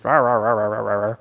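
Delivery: run-on "rah rah" squabble sound; mock arguing noise. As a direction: imitate a shouting match without raising your voice. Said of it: "they think they're right and I think".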